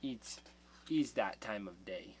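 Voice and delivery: whispered cat voice; voicing the cat. Voicing the cat that wants cuddles, whispered. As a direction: hush it like a sleepy cat. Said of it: "She's like".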